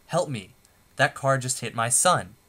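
half-hearted yell as a mother in an emergency; mock yell. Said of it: "a mother who yells".

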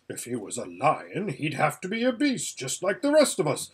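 lightly voiced Bree, lecturing with swinging pitch; Bree the talking horse, self-assured. Horse explains the lion to a little girl, self-assured. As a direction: explain it like a know-all horse.

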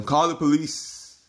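imitating an old man's alarmed shouting; retold yelling. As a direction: yell for the police like an outraged old man. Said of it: "he started yelling".

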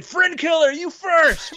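urgent calling out. Acted. Teammates pushing the fighter out first, high and urgent. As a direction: shove them forward with the voice. Teammates push player into arena.

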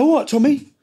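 high, sing-song all right Tommy; a knowing, high hello from the van; mock friendly greeting. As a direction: imitate the cheeky greeting up high. Repeated cheeky greeting.

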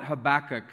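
Habakkuk as huh-BACK-ick, stress in the middle; own pronunciation. Shown as a demonstration. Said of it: "I call it".

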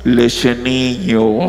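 very deep, extremely slow intoning; temptation voice. Retold or imitated. Dessert tempting the pastor at night, deep slow voice. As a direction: stretch each word out low, like a haunting. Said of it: "Veio una voz que me faló".

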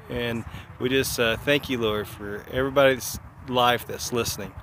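prayer. Acted. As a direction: pray gently over the listeners. Closing blessing prayer.

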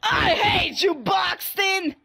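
hammed-up hateful shouting; Shrimpo. Angry shrimp raging at a teammate, mock-furious shout. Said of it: "play as this little angry shrimp".

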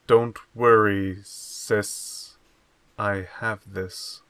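deadpan, low-key hero line; emotionless reassurance. Acted. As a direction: reassure her with no emotion at all. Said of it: "I've seen holograms show more emotion".

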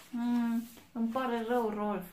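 loud, slightly high sorry piglet; little piglet. A narrator's reading. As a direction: comfort Rolf in the piglet voice. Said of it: "a spus porcușorul".

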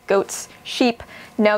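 normal talking voice

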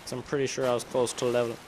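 talking through hiccups; hiccuping mid-sentence. Real, not acted. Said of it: "keep hiccuping".

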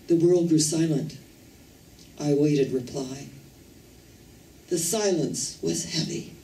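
solemn, measured reading of a poem; poem recitation. Acted. A speaker reciting a rabbi's poem to the audience, solemn recitation.

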